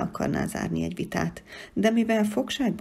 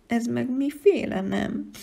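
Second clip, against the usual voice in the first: sniffling question; 5 semitones higher, 3 dB louder, slower than usual. Acted.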